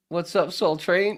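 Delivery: slow laughing greeting; laughing quote. Retold or imitated. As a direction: crack up while quoting. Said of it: "I just said".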